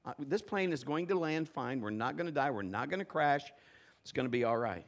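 low, quiet, steady comfort; calm reassurance. Retold or imitated. Preacher calming the panicked passenger, low and quiet. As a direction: settle him down gently. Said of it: "I said".

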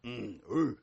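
low, short male grunts; imitated grunts. Preacher imitating guys keen on tackle football, low grunts. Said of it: "all the guys grunt".

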